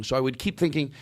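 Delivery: usual speaking voice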